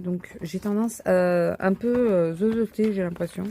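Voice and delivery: slight lisp, tongue sore; lisping from bitten tongue. Real, not acted. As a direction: talk around a bitten tongue. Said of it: "je me suis mordu la langue".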